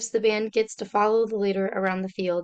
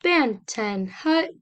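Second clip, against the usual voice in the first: imitated drum major's yell; much slower than usual. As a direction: call the band to attention. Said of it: "the drum major will yell".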